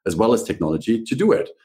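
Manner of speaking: upbeat pitch-lifted scripted show opening; podcast host intro. Real, not acted. Host welcoming listeners and introducing the branding guest, presenter voice.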